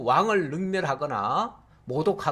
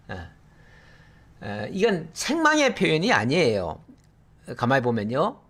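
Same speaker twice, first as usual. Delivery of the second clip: ordinary talk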